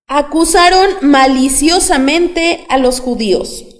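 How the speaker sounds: drawn-out reading, stressing "Acusaron"; slow emphatic reading. Shown as a demonstration. Preacher reads the verse slowly with the congregation, stressing "Acusaron". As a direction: read "Acusaron maliciosamente" slowly, leaning on "Acusaron". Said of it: "vamos a leer de nuevo todos juntos".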